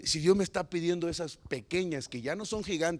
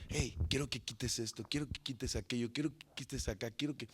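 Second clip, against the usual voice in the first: God's quiet voice; 5 semitones lower, 8 dB quieter than usual. Retold or imitated. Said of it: "ahí es donde Dios nos muestra".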